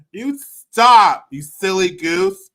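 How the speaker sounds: high, loud teasing scold; mock scolding. Scolding the man on screen in a high, loud teasing voice. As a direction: shoo him off like a naughty child.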